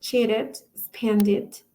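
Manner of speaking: "Cheated, expanded" with -ed as a syllable 'id'; ending said as ID. Shown as a demonstration. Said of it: "it sounds like I D".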